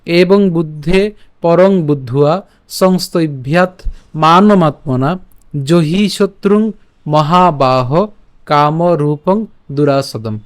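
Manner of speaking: slow, measured Sanskrit shloka reading; verse recitation. Shown as a demonstration. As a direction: draw out long vowels, pausing at each phrase. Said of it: "আমি আবার বলছি".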